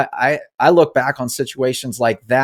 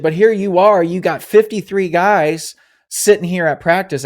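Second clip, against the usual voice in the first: higher and louder, scolding himself into gear; self pep talk; 6 semitones higher, 4 dB louder than usual. Retold or imitated. To himself on the bus, a higher, louder pep talk. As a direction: snap yourself out of the mope, pitch up and push. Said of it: "I said".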